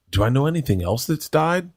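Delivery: a hint of a wondering kid; lightly voiced little girl. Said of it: "And Isla goes".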